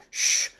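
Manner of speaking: a soft mock shh, keeping it secret; playful shush. Shushing the audience as a playful secret. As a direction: hush the room playfully. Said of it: "just quietly".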